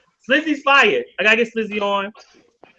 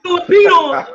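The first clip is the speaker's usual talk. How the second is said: higher, louder demand; mock shout; 8 semitones higher, 6 dB louder than usual. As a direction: call it out like a hype man.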